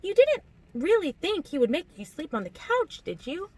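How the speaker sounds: high, lilting voice; amused, high-pitched incredulity; teasing disbelief. A narrator's reading. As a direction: tease in a high singsong question. Alice teases the aghast narrator.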